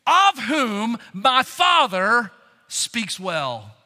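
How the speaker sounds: very slow, drawn-out shouted welcome; slow ringing call. Acted. Preacher voicing Christ calling the blessed, slow shouted proclamation. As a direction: proclaim every word of the welcome. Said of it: "it simply means".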